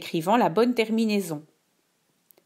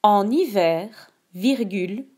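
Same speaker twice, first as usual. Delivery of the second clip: dictating. Shown as a demonstration. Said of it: "Je te dicte la phrase deux".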